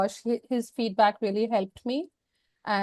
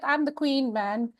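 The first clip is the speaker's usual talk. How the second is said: proud boast; 3 semitones higher, 3 dB quieter than usual. Retold or imitated. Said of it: "I was like".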